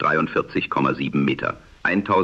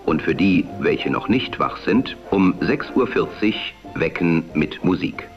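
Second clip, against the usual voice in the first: am radio. Acted. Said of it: "die dem damaligen Sprechstil nahekommt".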